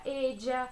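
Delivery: "ella" said as "edja"; "ella" with the double l as a voiced "dj"; ella with a "dj" sound. Shown as a demonstration. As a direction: pronounce the ll of "ella" like English j. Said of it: "como a gente já falou sobre a pronúncia".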